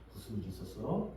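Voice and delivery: low, soft parental question; calm, gentle asking. Acted. Parent to child after the tears, calm gentle question. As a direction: ask the child softly and calmly. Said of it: "차분하게 이야기를 하죠".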